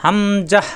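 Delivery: "হামজাহ" snapped out crisply; quick hamzah. Shown as a demonstration. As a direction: say "হামজাহ" fast with no stretch. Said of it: "দ্রুত উচ্চারণ হবে".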